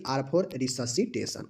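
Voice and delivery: drawn out very slowly, letter by letter; slow spelling out. Shown as a demonstration. Teacher spelling out an acronym slowly for students. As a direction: stretch each word for the class. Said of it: "फिर से देखिए".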